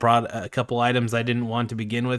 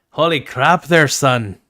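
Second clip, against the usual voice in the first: loud, put-on fake Irish accent; 2 semitones higher, 8 dB louder than usual. Joking around with friends, the speaker drops into a fake irish accent. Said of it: "just like my fake ass Irish accent".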